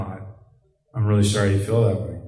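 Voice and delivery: imitating mom staying calm, never rising; calm and even. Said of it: "she would just calmly say".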